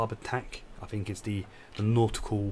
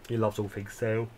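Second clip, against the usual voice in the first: talking through a yawn; words stretched by a yawn. Real, not acted. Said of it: "Sorry for the yawning".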